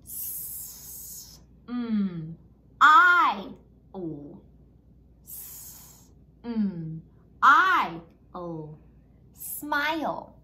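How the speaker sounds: whispered "S", "mm", loud "I", "o", then "Smile"; sounding out smile. Shown as a demonstration. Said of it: "let's sound this word out".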